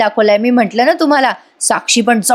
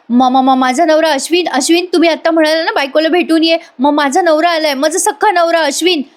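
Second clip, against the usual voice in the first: a hint of a raised, stammering plea; 6 semitones higher than usual. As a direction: call out insistently, stuttering at the start. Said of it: "Priya मोठ्याने म्हणते".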